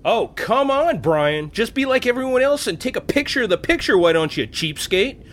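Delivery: exasperated, sarcastic rant at a friend; a touch of mounting irritation, heavy on the sarcasm; mild angry rant. Acted. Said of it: "Angry much?".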